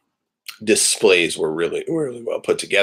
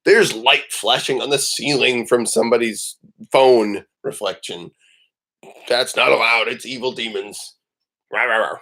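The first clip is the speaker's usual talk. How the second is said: dog dictator voice; 3 semitones higher than usual. Retold or imitated. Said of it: "she gets into dictator mode".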